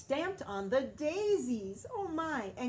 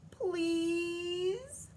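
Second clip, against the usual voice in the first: high, louder crying please; tearful plea; 9 semitones higher, 4 dB louder than usual. A narrator's reading. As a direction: beg through tears. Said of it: "She finally said".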